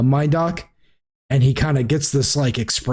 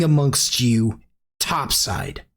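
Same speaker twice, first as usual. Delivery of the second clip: slow menacing host; 3 semitones lower than usual. Acted. Alistair Blackcloak warning the party, slow and low. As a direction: let each word hang like a threat.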